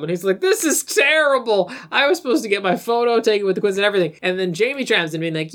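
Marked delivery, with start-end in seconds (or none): 0.4-4.2 lightly mimicked, distraught comic actor; hammed-up celebrity complaint; Don Knotts. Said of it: "doing a Don Knotts impression".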